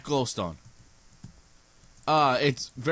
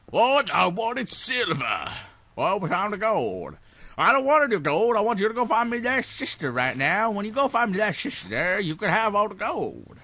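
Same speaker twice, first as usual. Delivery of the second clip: bossy character; 6 semitones higher than usual. Pretend. Acted character demands sister.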